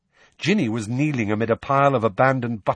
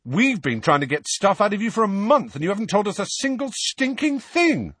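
high, heated grievance; exasperated outburst, climbing in pitch; angry complaint; 12 semitones higher, 4 dB louder than usual. A narrator's reading. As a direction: complain hotly, voice raised. Twin joins angry complaint.

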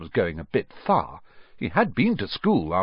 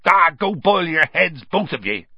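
gruff dismissal; 8 semitones higher, 6 dB louder than usual. A narrator's reading. Hagrid dismisses the panicking pair.

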